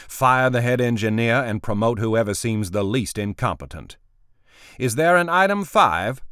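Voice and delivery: curt, commanding executive; brusque boss voice. Acted. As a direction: give orders without patience. Boss voice held in narration.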